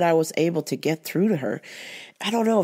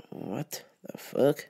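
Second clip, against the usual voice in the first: whispered, slow disbelief; whispered reaction to a rude customer; stunned whisper; 6 semitones lower, 10 dB quieter, slower than usual. Retold or imitated. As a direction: breathe it under your breath in shock. Stunned aside to self.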